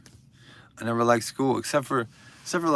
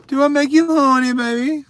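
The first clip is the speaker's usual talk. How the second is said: mock seductive; 10 semitones higher, 7 dB louder than usual. Mock seductive tease at viewer.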